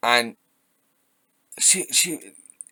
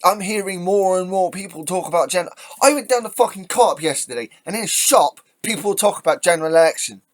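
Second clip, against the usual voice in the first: raised, higher-pitched venting; exasperated rant; 5 semitones higher, 4 dB louder than usual. Real, not acted. Commentator on shop talk of general election, exasperated rant. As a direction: vent it loudly in disbelief.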